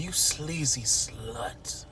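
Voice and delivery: slow, hushed bougie insult; Anita. Retold or imitated. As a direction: read her for filth in a near whisper. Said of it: "Anita read her for filth".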